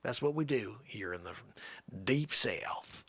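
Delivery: put-on lightly drawled Southern accent. Comic showing off accents to stream viewers, Southern accent. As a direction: talk like a Deep South local. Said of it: "never really done a Southern".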